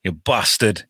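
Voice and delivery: low-key imitation of a Yorkshire accent; lightly voiced northern English hero; Jon Snow. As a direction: say it with short Yorkshire vowels. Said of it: "your Jon Snow".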